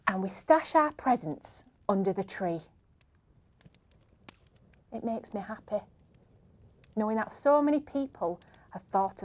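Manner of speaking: put-on expressive read-aloud of a child's Christmas poem. Presenter reading a pupil's poem for charity, expressive read-aloud. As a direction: read it gently, savouring each line.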